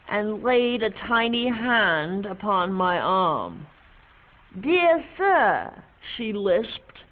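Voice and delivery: reciting a remembered poem, fading; poem recitation. Acted. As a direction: recite the verse with feeling.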